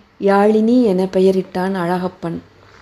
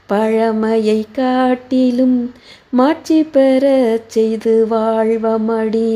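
soft poem recital; 3 semitones higher, much slower than usual. A narrator's reading. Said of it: "மெல்லிய குரலில், பாடுவது போலும் அல்லாமல் பேசுவது போலவும் அல்லாமல்".

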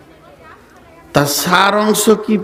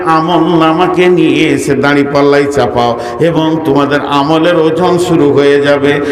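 melodic sermon. Real, not acted. Preacher warns Ayesha of Judgement Day, in melodic sing-song preaching. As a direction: preach in a sustained chant, swelling on the big phrases.

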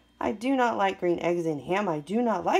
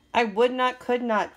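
louder, punched no to Sam; loud refusal; 4 semitones higher, 5 dB louder than usual. Acted. Grouch refusing in the dark, louder punched protest. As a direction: bark the refusal.

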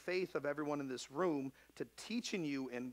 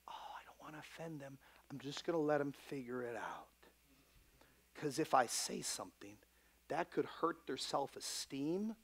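lampoon the coddling parent in a murmur; mock permissive parent. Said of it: "you a stupid parent".

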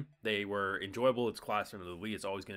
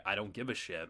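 lightly imitated deadpan indifference, a touch softer; 3 semitones lower, 5 dB quieter than usual. Reviewer voicing the character who ignores admirers, mildly deadpan. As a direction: toss it off deadpan, as the uninterested character. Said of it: "him just being so deadpan".

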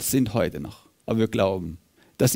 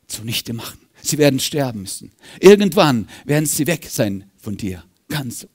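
mocking Satan. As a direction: taunt Jesus with scorn, lightly voiced. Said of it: "er lachte höhnisch und sagte".

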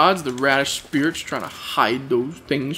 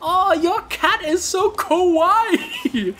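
slow, high, gushing fangirl voice; excited anime fan; 13 semitones higher, slower than usual. Retold or imitated. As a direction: gush over the cat like a fangirl.

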